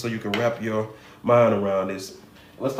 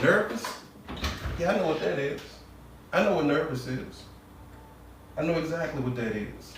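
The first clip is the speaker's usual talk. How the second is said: higher, eager recognizing voice; voice of the subconscious; 3 semitones higher, 7 dB quieter than usual. Acted. The subconscious grabbing the word nervous, eager and higher. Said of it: "the subconscious mind gonna go".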